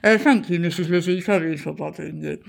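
lightly voiced hesitant policeman; a hint of a timid young officer; nervous young constable. PCSO voice.

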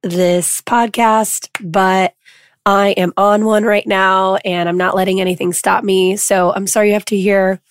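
lost voice, hoarse and rough; talking through a hoarse voice. Real, not acted. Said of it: "I lost my voice".

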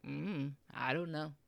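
soft, noncommittal hum and reply; acted indecisiveness. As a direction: play someone who can't decide, quietly. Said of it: "my indecisiveness that drives me crazy".

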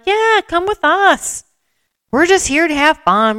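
friendly runner inviting. Retold or imitated. Runners inviting a lagging newcomer.

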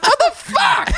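high laughing disbelief; laughing outrage. Retold or imitated. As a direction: shriek it through laughter.

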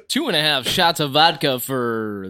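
put-on slow old-time radio announcer; old-timey announcer. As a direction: announce it like a 1940s ballgame. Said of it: "old-timey baseball announcer after he drinks".

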